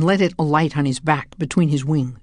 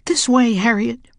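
breathy whisper up high; hushed urgent call to his sister; 7 semitones higher than usual. A narrator's reading. James calls to Harriet in a whisper.

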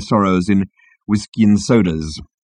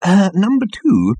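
slow, hesitant, higher-pitched call; gentle slow interjection; mild, soft address; 10 semitones higher, 3 dB louder, slower than usual. A narrator's reading. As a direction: tentatively get an underling's attention. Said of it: "said the captain softly".

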